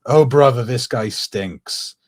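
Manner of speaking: loud opening, slow drawn-out finish; hammed-up grumble; mock angry. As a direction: imitate an angry cartoon fish. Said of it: "he already sounds so angry when he says".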